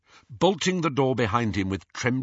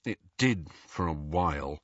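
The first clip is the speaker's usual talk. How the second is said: low, softer mutter; 5 semitones lower, 5 dB quieter than usual. A narrator's reading. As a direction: mutter it under your breath. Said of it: "muttered Harry".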